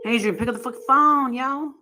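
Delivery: loud call across the house. Real, not acted. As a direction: yell for him to pick up. Calling her husband to wake up.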